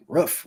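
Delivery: "Roof" with a short uh like ruff; Wisconsin roof. Retold or imitated. Wife puzzled at his correction, short Wisconsin ruff. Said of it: "She's like".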